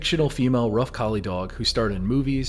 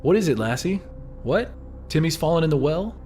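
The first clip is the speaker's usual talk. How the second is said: lightly acted questioning of a dog, higher pitch; quoting a catchphrase; 5 semitones higher than usual. Narrator quoting what people say to Lassie, lightly acted higher questioning. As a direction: voice it as a worried question to Lassie, lifted at the end. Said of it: "Do you remember people saying the phrase".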